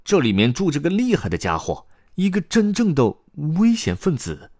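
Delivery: high youngster voice, dramatic warning; 卡梅利多. A narrator's reading. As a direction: build up the danger for your companions. 卡梅利多警告同伴. (高音小角色郑重警告)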